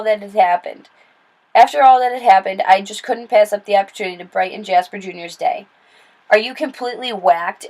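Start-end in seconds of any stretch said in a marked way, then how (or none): none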